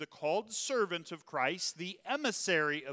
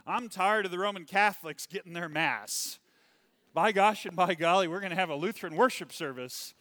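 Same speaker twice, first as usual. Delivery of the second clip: loud, determined outburst; enthusiastic declaration; 3 semitones higher, 8 dB louder than usual. Retold or imitated. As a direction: declare it boldly, fired up. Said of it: "he said".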